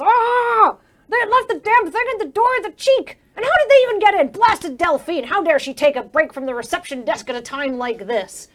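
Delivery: high, loud, indignant sputter; flustered outburst. Acted. GM voicing the chamber director fuming after his fall. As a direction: squawk in outrage at the mess. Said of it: "he picks himself up and just goes".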